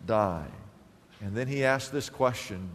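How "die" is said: slow solemn quote. Acted. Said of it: "gives me the goosebumps".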